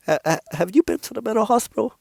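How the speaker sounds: fast, stammering "are you serious" question; incredulous roast. Real, not acted. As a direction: rush it out, half laughing at them. Mock-confronting people who half follow God.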